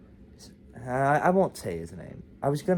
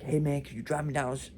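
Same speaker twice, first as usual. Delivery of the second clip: quick, higher retold Baltimore accent; 4 semitones higher, faster than usual. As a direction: imitate a Baltimore street kid's accent. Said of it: "the Baltimore accent".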